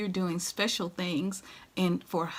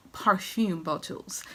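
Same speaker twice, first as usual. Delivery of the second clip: slow mock-French pronunciation; playful French accent; slower than usual. Vlogger showing off her bottles in playful mock French. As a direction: put on a drawn-out little French accent. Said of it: "that's my little French".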